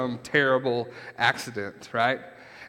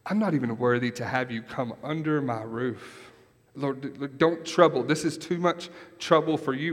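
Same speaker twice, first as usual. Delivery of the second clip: humble centurion. Retold or imitated. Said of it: "what does the centurion say".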